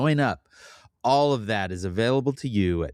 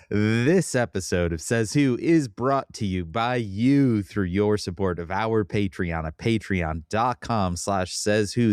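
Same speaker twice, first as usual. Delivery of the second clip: announcer read; slower than usual. Acted. Reads the sponsor message.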